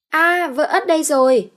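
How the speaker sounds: put-on high, loud childish man voice; high childlike husband's voice; simpleton husband. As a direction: play a dim-witted brute.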